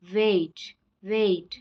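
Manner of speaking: वेट gliding from e into i; diphthong demo. Shown as a demonstration. Teacher modelling the diphthong in वेट. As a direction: glide the vowel in वेट. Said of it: "ए और आई का sound आ रहा है".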